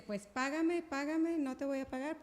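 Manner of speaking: a demanding creditor pushing hard; pressing voice: pay me now; mock demanding servant.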